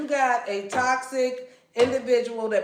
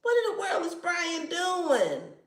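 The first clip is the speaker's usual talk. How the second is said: mock exasperated; 3 semitones higher than usual. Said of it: "You like".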